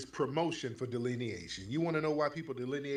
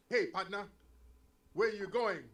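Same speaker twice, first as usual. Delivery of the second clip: higher, lightly mocked attempt at Black American talk; mock imitation accent; 4 semitones higher than usual. Host mocking people learning from old movies, imitated Black American accent. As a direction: mimic an outsider practicing a Black American accent. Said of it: "I'm gonna talk like these niggas".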